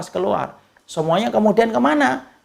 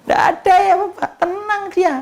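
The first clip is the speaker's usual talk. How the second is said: emphatic high call; 12 semitones higher than usual. Real, not acted. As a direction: call it out to the crowd. Emphatic answer to congregation.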